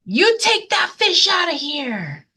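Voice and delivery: lightly voiced angry crowd; mild mock yell. Crowd yelling at the boy, mild mock yell. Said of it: "they yelled".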